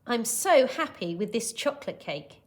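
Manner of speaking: happy, with a grin in it; a touch of delight, SO stressed; grinning happily. Acted. Missus Joshi pleased with chocolate cake, grinning happily. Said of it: "she grinned".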